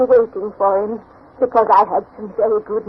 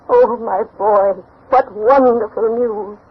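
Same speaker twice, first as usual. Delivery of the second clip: tender joy; slower than usual. Acted. Grandmother moved by good news.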